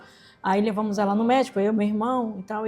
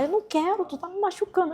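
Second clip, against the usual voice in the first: whiny mother; 8 semitones higher, 4 dB quieter than usual. Retold or imitated. Mother voiced complaining.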